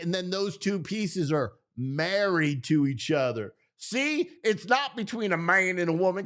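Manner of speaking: light, put-on Southern accent for comic effect. Man pitching a welding analogy for marriage, mock Southern accent. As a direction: argue it like a folksy Southerner, playfully. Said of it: "do it with a Southern accent".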